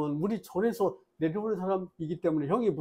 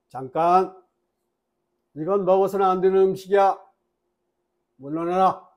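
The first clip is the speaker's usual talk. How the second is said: louder, stern self-command; firm command; 5 dB louder than usual. Shown as a demonstration. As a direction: order the craving to back off. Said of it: "정신을 바짝 차리고". (단호하게 크게 물러나라)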